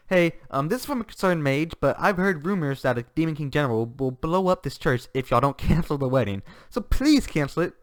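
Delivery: mock-polite girl. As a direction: play innocent while threatening. Megumin's mock-polite bomb threat.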